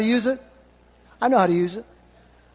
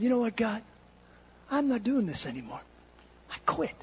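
soft, subdued retold complaint to God; weary quitting; 9 dB quieter than usual. Hurt preacher telling God he quits, softly subdued. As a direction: say it quietly, as if giving up.

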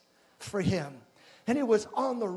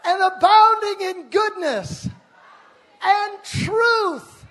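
rising higher and louder to and truth; building proclamation; 7 semitones higher, 5 dB louder, slower than usual. Shown as a demonstration. Preacher leading the congregation in scripture, building call. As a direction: lift the room word by word. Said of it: "Say with me".

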